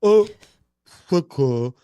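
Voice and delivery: exaggerated French pronunciation, half-swallowed; dopey French accent demo. Shown as a demonstration. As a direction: say it in French as if you can't fully talk. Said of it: "wanna do a French accent".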